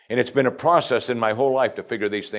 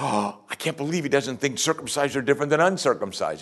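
gasp, then higher mock disbelief; imitated shock; 5 semitones higher, 3 dB quieter than usual. Religious Jews reacting to Paul, mock shocked. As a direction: play a scandalized objector. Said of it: "The religious Jews probably went".

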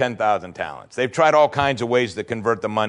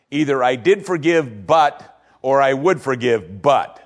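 mock excuse; 3 dB louder, slower than usual. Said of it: "have said things to me like this".

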